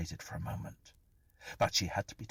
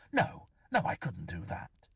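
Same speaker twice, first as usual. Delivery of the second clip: shocked denial. Acted. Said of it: "shaking his head in shocked denial".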